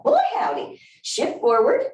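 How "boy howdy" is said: high, hammed-up Southern "Boy, howdy"; Southern exclamation. Instructor joking to the class in Southern style, playful. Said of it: "as we say in the South".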